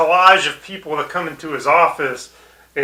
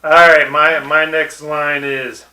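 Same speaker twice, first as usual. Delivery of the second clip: ordinary talk, nothing marked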